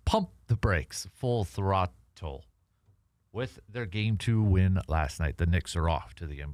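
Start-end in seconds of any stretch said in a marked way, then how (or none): 0.1-2.5 slow, drawn-out announcer call; segment title announcement. Acted. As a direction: stretch the show title like a host. Host calls the segment title again.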